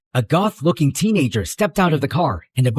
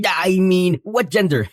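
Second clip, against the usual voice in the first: talking while eating; words round a bite of food; mouth full; 3 semitones higher than usual. Real, not acted. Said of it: "I'm eating".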